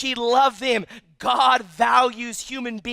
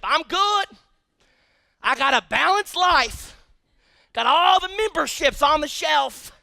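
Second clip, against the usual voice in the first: self-satisfied; 5 semitones higher than usual. Acted. Mimics complacent church member.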